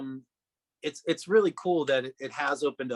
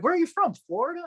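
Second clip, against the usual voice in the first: mocking a customer's question; 4 dB louder, faster than usual.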